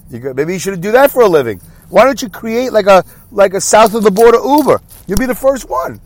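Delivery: mocking border agent. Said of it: "that's my impression of what goes on at the border".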